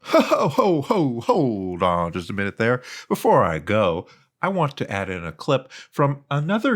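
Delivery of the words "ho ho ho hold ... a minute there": sudden call back. Real, not acted. Sudden stop before leaving.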